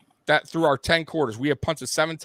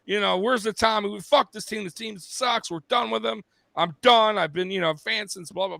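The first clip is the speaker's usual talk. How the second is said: mocking angry fans; 5 semitones higher than usual. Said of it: "a lot of the chat room was like".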